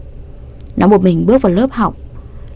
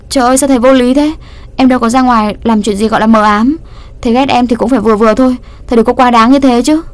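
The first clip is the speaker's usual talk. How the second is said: higher, louder, fast outraged complaint; indignant protest; 4 semitones higher, 3 dB louder, faster than usual. Acted. Student angrily protests the teacher's punishment. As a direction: protest the unfairness hotly.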